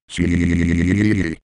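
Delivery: C stretched very slowly in a warped robotic tone; C dragged out as a software glitch; drawn-out glitchy C. Shown as a demonstration. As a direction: hold the C far too long, like a glitch. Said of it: "if I say C with tons of E's".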